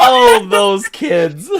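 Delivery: loud, slow, drawn-out monster mimicry; a monster copying a human voice, stretched out; mimic creature voice. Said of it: "Elvis a mimic".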